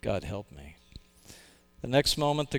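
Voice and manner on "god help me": whimpering. A narrator's reading. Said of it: "he ended whimpering".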